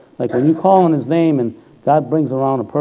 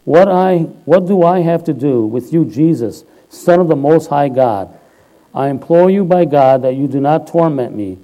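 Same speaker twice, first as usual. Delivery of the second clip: loud cry; 4 dB louder than usual. Acted. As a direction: cry it out as if reading scripture to a crowd. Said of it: "he cried out with a loud voice".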